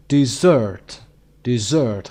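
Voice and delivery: "dessert" as di-ZERT, second beat strongest; stress on second syllable. Shown as a demonstration. Teacher showing word stress, second syllable of "dessert" stressed. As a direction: punch the end syllable of "dessert". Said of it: "قسمت دوم".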